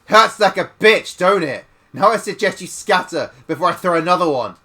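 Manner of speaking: put-on loud, furious old woman; thick with rage. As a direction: snarl the threat at the children. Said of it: "in a voice thick with rage".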